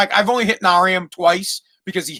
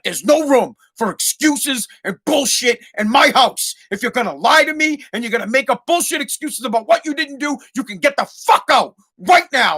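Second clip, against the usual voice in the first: retold rant; 5 semitones higher than usual. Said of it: "And I went off".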